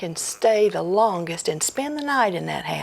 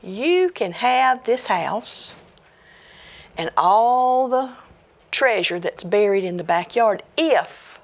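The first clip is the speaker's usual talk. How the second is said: ghost's voice; 4 semitones higher than usual. Acted. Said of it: "the ghost said".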